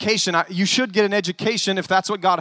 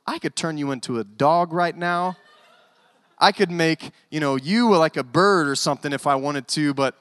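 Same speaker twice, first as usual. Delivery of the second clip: lower-pitched, muted mock threat; Jesus, frustrated; 5 semitones lower than usual. Imagined Jesus threatening his disciples, muted frustration. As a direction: grumble an idle threat in frustration. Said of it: "just getting so frustrated and going".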